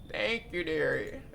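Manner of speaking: grandma voice. Acted. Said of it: "My grandma voice kinda mid".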